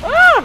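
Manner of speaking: sudden high loud scream of fright; startled scream. Real, not acted. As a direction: jump out of your skin. Mistakes teammate for zombie.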